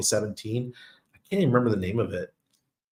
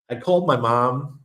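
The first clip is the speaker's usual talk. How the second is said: slight New York accent slipping out; a touch of New York in the vowels; 3 semitones higher than usual. Real, not acted. Telling viewers about phoning mom, light New York accent. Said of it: "a little bit New York accent there".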